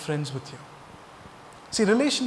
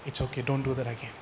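softer, lower, forgiving reassurance; gentle forgiveness; 4 semitones lower, 6 dB quieter, faster than usual. Acted. Love answering a person who made a mistake, gently forgiving. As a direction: let the mistake go quietly.

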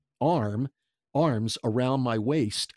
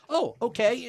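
mock surprise; 12 semitones higher than usual. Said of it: "and he goes".

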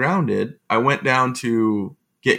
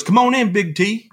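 hammed-up greeting from a president, pitched way up; Bush impression; 10 semitones higher than usual. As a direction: president waving a guest into his office, high and hearty. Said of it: "He goes".

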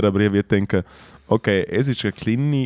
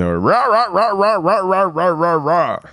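imitating Matteo; 9 semitones higher, slower than usual. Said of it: "der Matteo ist auf die Bühne und er so".

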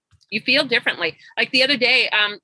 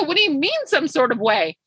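retold clueless question, lightly puzzled; naive puzzlement; 3 semitones higher than usual. Coach asking her client to explain, naively puzzled. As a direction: play innocent and ask what is meant. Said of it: "Miss Naive".

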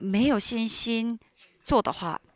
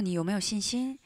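gentle voice of God; 4 dB quieter than usual. Retold or imitated. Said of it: "神对我说".

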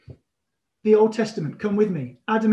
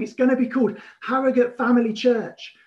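enthusiastic prophecy; 3 semitones higher than usual. Retold or imitated. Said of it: "He started prophesying".

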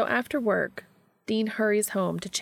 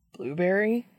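a light, eager lift on the word; lightly voiced delight over a pastry; excited. A narrator's reading. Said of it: "he exclaims excitedly".

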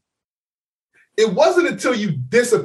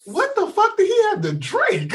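much higher, shouted, half laughing; mock shout. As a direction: blurt it out shocked and laughing. Narrator's reaction to drunk friend.

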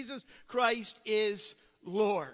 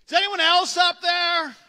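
desperate yell, much higher and louder; 9 semitones higher, 14 dB louder than usual. Retold or imitated. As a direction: shout up hoping for someone else. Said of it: "Jack yells up".

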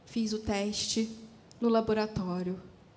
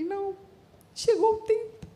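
overwhelmed joy; 7 semitones higher than usual. Retold or imitated. Sees two lines on the test.

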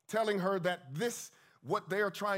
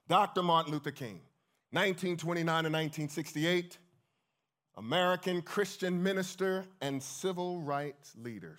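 louder, declaimed like an announcer; formal recitation; 3 dB louder than usual. Acted. Introducing a great-grandmother's favorite album, formal recitation. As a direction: announce it with measured, ringing formality.

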